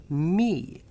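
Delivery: me stressed; firm me; emphatic me. Real, not acted. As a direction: land on me. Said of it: "I'm talking about me".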